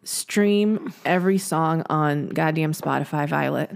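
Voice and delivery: slow, drawled shout-out; cowboy drawl. Acted. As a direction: drawl like an old-time cowboy.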